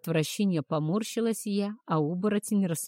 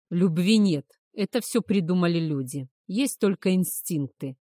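громко, чеканя каждое слово; отрубить: «Любви нет»; чеканя слова; 5 dB louder than usual. Acted. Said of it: "отчеканил волк". (твёрдо и чётко, по слогам)

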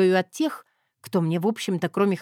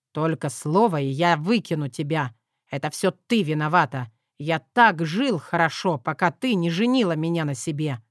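through teeth; 4 semitones lower than usual. Acted. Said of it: "процедил сквозь зубы".

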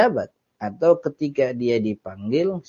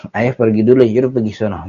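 curt; 5 dB louder, much faster than usual. Acted. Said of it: "sekarang ngomongnya ketus ya".

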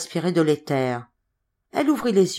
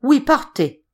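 tags 1; 9 semitones higher, 5 dB louder, slower than usual. Acted. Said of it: "ordonna la voix lugubre de Coriolis".

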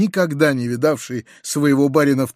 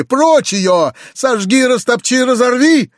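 much higher, louder, escalating orders; furious shout; 9 semitones higher, 6 dB louder, slower than usual. A narrator's reading. Uncle ordering Gavrila to destroy it, enraged. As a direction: rage at the hated notebook. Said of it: "с яростью закричал он".

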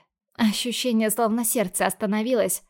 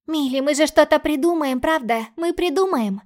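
put-on higher and louder, anxious girl; frightened little sister; 5 semitones higher, 4 dB louder than usual. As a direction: pepper her sister with scared questions. Sister pleads for reassurance.

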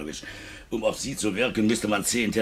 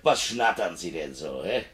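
mocking laughter; 3 semitones higher than usual.

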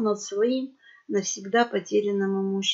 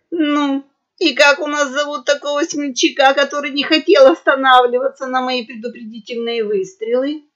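loud, higher, menacing pirate boar; bully the captive with a sneer; angry grunt; 4 semitones higher, 6 dB louder than usual. A narrator's reading. Pirate boar interrogating the captured merchant, angrily. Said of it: "Хрюкнул чёрный хрякер и злобно".

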